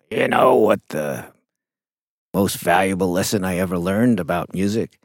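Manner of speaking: gravelly, raspy voice; a jazz musician's gravelly voice. Retold or imitated. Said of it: "this gravelly voice".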